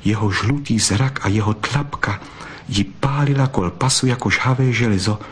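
ordinary delivery

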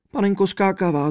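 high, mildly sobbing cry; a touch of a sob, pitched high; sobbing princess. A narrator's reading. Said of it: "zavzlikla princezna". (vysoký, lehce vzlykavý hlas princezny)

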